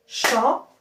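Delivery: "Chanteur" broken as chan, long pause, teur; each half of "Chanteur" on its own; syllable by syllable. Shown as a demonstration. Teacher starting over for pupils, syllable by syllable. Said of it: "Je recommence".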